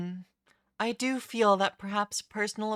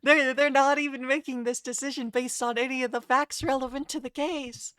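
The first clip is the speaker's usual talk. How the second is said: high, loud heated argument; heated objection; 5 semitones higher, 4 dB louder than usual. Acted. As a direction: argue hotly at the judge. Lawyer protesting to the judge.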